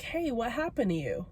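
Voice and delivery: soft, gentle voicing of a concerned coworker; genuinely concerned. Coworker touching the wrapped arm, asking with soft concern. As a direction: quote him softly, with careful concern. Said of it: "he seemed so genuinely concerned".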